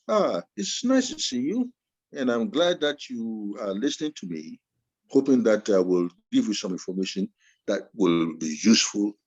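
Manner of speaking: swinging the pitch up and down like a song; varied tone demo. Shown as a demonstration. Lecturer shows students his voice going up and down. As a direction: let "Ah, it's nice to see you" sing, then drop low and rise again. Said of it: "it's like a song, it's like a poem".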